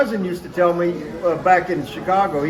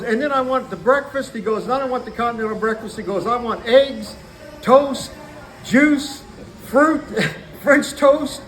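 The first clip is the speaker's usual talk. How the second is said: imitating demanding guy; 4 semitones higher than usual. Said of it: "yelling and screaming on the phone".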